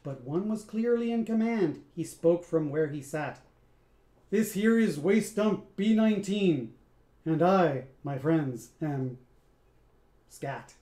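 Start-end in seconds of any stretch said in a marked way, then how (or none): 4.3-9.2 a louder, lightly voiced cocky band boss; swaggering boss. Scat introduces himself to the band, cocky swagger. 10.3-10.7 low reveal. Acted. Scat reveals his own name, low soft pride.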